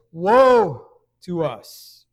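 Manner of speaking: loud, slow drawn-out wail of woe; lament. Retold or imitated. Jeremiah crying out over his plundered people, loud slow lament. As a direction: cry it out like a grieving prophet. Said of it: "Jeremiah says".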